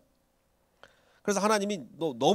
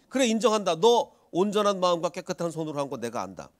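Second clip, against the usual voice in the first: God affirming; 3 semitones higher, 3 dB louder than usual. Retold or imitated. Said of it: "하나님이".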